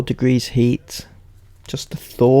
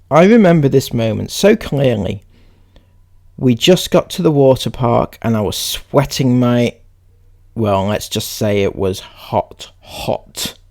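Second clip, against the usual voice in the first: read-aloud; 4 dB louder than usual. Acted. Reads a post aloud.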